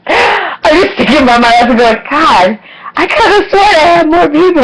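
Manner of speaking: breaking up laughing, high and cracking; words squeezed out between laughs; laughing through words. Real, not acted. Laughing while recalling her life.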